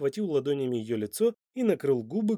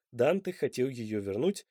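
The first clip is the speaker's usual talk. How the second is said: plain reading voice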